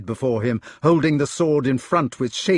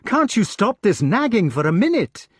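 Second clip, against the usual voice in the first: higher-pitched imploring question; pleading; 8 semitones higher than usual. A narrator's reading. Gareth begs his brother to stop, pleading. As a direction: beg for a moment's peace. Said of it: "pleaded Gareth".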